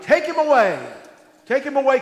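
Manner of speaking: loud, high shout of an angry mob; crowd shouting. Acted. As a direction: hurl it like a crowd demanding death. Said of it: "But they shouted".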